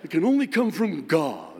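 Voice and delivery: husband repeats the line in booming pious reverb; King James reverb. Shown as a demonstration. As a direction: intone it like a hammy preacher with echo. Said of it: "King James reverb in it".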